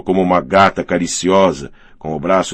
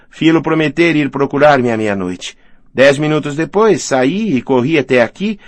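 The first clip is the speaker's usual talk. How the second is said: a touch higher, lively storytelling character voice; lightly voiced excited woman; 7 semitones higher than usual. Woman telling guests of her escape, lightly voiced agitation.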